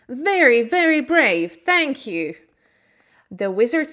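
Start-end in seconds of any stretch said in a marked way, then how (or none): 0.1-2.3 loud, high, proud lion voice; lion's proud shout. A narrator's reading. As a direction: roar it out with new courage.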